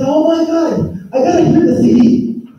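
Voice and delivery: imitating an elder who can't wait to listen; high, rushed whisper of delight; eager excitement. Retelling shaman's eager reaction.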